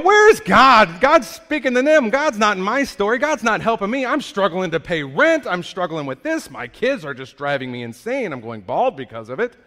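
exasperated outcry, half-mocking the listener's own thoughts; loud frustrated complaint. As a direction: vent like someone fed up and struggling. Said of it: "you're going".

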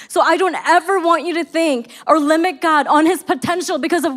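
rising, emphatic preaching cadence. Acted. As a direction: build the case with conviction. Preaching builds.

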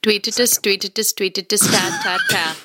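attempted Indian dialect; Indian accent. Shown as a demonstration. Guest gives second mystery accent for hosts to guess, Indian accent. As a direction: put on a rough Indian accent. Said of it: "an, an Indian dialect?".

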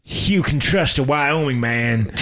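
a drawn-out Wyoming cowboy making a promise; hammed-up slow Wyoming cowboy accent. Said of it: "I don't know what a Wyoming accent is".

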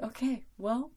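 lightly voiced mom, matter-of-fact and wise; mom's voice. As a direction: mom calmly setting her daughter straight, lightly voiced. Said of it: "And my mom's like".

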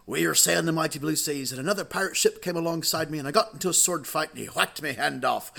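lightly voiced pirate spinning a sea yarn; a hint of old-salt pirate talk. Pirate tells how he lost his leg, lightly voiced pirate. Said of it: "there was a real life pirate".

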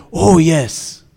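slow, drawn-out pious "Oh yes"; a show-off group member instead of saying Amen; mock churchy oh yes. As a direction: stretch it like a showy believer. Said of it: "tu les entends à la place de dire Amen".

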